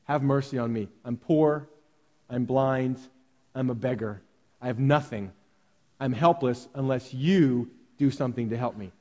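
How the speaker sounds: the beggar's true plea, low and humble. Retold or imitated. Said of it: "He says".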